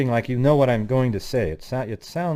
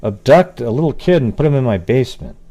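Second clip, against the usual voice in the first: mock criminal; 2 semitones higher, 9 dB louder than usual. Mocking imagined abductor's thought, hammed-up. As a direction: ham up the absurd thought. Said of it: "you just one day go".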